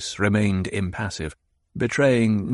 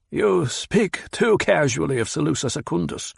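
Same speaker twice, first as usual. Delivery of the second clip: higher, pointed rebuke; Hawat, reproving; 7 semitones higher than usual. Acted. Hawat rebukes the Baron, pointed and higher. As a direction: correct him sharply.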